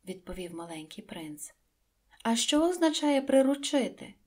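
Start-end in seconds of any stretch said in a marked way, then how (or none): 2.2-4.1 insistent. A narrator's reading. Prince insists, repeated.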